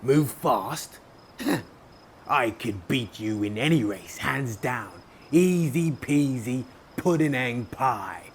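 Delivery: loud, slow lazy boasting; yawning boast. Acted. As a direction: boast it lazily, mid-yawn. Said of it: "yawned Bear".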